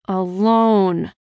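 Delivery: held-in irritation on one word; through the teeth. A narrator's reading. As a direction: force it out through your teeth. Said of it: "I said through my teeth".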